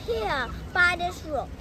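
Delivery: loud, bold little mouse; little mouse boldly turning down the fox, loud; brave mouse voice. Acted. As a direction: play the plucky mouse, proud and sure.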